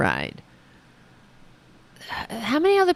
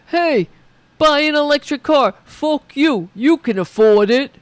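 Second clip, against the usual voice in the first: Joe Biden; 5 semitones higher, 6 dB louder than usual. Pretend. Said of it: "Joe Biden said".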